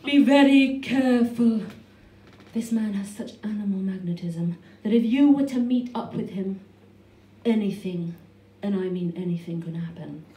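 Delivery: mock-grave phone voice, loud then easing down; mum's phone voice. Mum warning daughter about ex's animal magnetism, put-on phone voice. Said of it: "That's my mum's phone voice".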